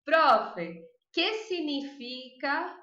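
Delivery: lightly voiced student question; mild student tone; imitated student. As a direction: ask like a student in the comments. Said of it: "e bota a palavra".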